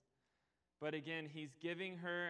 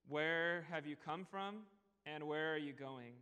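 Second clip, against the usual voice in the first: caring questions. Retold or imitated. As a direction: ask as if you truly want her story. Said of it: "He says".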